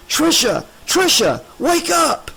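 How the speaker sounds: loud, high shouts through glass; calling out. A narrator's reading. Alex pounding on the door shouting to Tricia, loud. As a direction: yell to wake her up. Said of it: "calling in to her".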